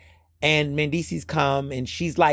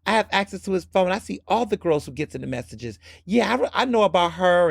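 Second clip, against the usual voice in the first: higher, breezy know-it-all; unbothered front; 4 semitones higher than usual. Retold or imitated. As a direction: brush it off as no big deal. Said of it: "trying to be like".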